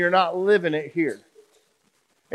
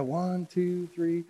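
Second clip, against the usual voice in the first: mom counting to three; 10 dB quieter, much slower than usual. Retold or imitated. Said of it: "had her count to three".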